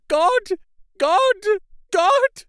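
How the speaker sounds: high, loud repeated cry of God; loud cries. A narrator's reading. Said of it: "Renfield had called out loudly several times".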